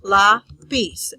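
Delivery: lápiz split into two syllables, lá, piz. Shown as a demonstration. Teacher separating the word lápiz into syllables, lá, pause, piz. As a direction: say lápiz with a clear break after lá. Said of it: "separate it into syllables".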